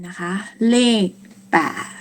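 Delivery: ordinary talk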